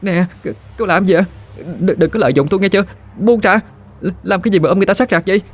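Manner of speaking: high indignant protest, rushed; a mild flustered shout; indignant yell. A narrator's reading. Phương protests as Chớt grabs hold of her, high and rushed. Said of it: "Phương la lên".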